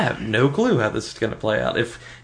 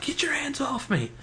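high, slow mock Lex line; 8 dB quieter than usual. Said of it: "slamming Lex".

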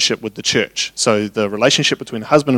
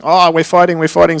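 higher voice, lightly imitating a child; child's complaint; 5 semitones higher than usual. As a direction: mimic a kid running out to tell on someone. Imitating daughter's complaint to dad.

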